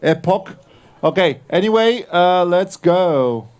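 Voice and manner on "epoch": "Epoch" as a questioning "eh-POCK", rising; unsure pronunciation. Real, not acted. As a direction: try out "Epoch" with a short open O, asking. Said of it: "don't know how to pronounce that".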